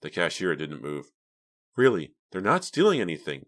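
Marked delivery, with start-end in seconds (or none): 1.7-3.4 raised, louder protest; shrill insistence. A narrator's reading. Pam defends her friends to the cashier, mildly shrill. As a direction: insist in a higher, pressing voice. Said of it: "Pam insisted shrilly".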